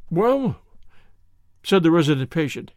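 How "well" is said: high, hesitant opener; evasive, jittery start; nervous. A narrator's reading. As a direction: hedge uneasily, pitch raised. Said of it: "in a nervous fashion".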